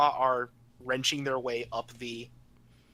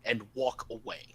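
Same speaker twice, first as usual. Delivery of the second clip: loud order from an authority; stern command; 10 dB louder than usual. Acted. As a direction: order the citizen off, loudly. Computer orders citizen to obey.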